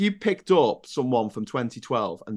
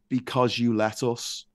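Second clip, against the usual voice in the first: evil psychopath; slower than usual. Retold or imitated. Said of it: "the evil psychopath man says".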